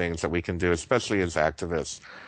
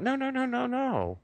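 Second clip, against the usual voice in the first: emphatic no. Real, not acted. Emphatic refusal of anger.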